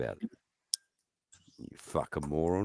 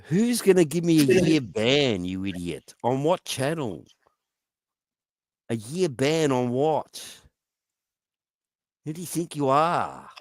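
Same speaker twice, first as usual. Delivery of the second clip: raised, higher voice, furious at the mod; angry rant; 6 semitones higher, 5 dB louder than usual. Real, not acted. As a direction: demand it loudly, in outrage. Ranting at a chat mod.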